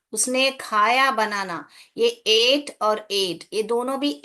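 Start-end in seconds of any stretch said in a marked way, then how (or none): 2.0-3.4 slow demo. Shown as a demonstration. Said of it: "दोनों का pronunciation same है".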